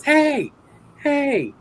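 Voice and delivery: loud, very high impression; Arnold. Arnold calling back the man he recognized, loud high impression. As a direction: call him back in a big, high star voice. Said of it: "he goes".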